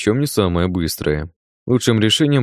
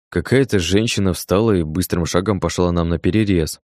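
ordinary delivery

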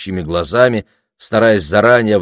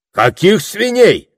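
high, slow baffled question; flustered; 12 semitones higher, 5 dB louder, slower than usual. A narrator's reading. Orator thrown by the question about pigs, flustered. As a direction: caught off guard, voice jumping up. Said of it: "растерялся оратор".

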